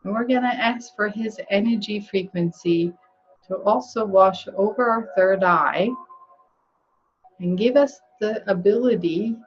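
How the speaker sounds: measured phrases with long pauses; guided meditation. Real, not acted. Healer calling in archangels for the group, guided meditation voice. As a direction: lead them gently through the invocation, pausing between phrases.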